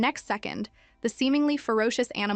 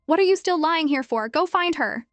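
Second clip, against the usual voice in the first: higher, louder angry shout; angry yell; 7 semitones higher, 5 dB louder than usual. A narrator's reading. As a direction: bark the order at the wolf. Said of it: "and yelled".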